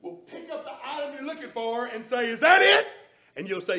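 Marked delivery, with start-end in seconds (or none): 2.3-2.9 high, loud bright clerk question; helpful store clerk. Acted. Lowe's employee holding up the item for the customer, bright and high. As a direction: ask it like an eager clerk showing the item.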